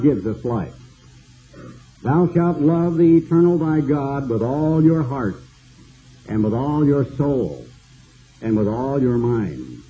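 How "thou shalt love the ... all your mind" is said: scripture reading. Acted. Reciting the commandment from scripture.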